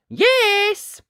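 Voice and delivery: high, bright, loud cheerful yes; small knight's happy yes; eager yes. Acted. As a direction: chirp it out like a keen little boy. Ned agreeing again.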